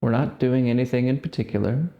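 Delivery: slow, spaced-out meditation cues; guided meditation. Real, not acted. Guiding listeners to just sit, guided meditation voice. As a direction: leave long silences between short, calm instructions.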